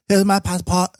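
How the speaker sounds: put-on high, clipped Asian-accented English. Asian-accented customer handing over passport at the till. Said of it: "speak in a very Asian-y English accent".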